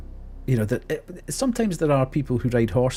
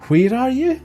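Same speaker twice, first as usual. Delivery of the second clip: much higher, louder call into the bushes; 12 semitones higher, 4 dB louder than usual. Retold or imitated. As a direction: call out to the hidden woman. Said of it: "It was just like".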